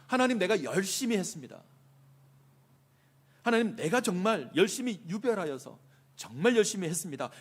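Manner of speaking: acted prophet's earnest protest; earnest plea. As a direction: plead your hard work, voice lifted. Voices Elijah's plea to God.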